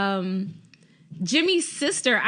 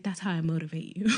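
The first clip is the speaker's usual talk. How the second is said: laughing villain quote; 5 semitones lower, 5 dB quieter, faster than usual. Retold or imitated. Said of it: "but he's like".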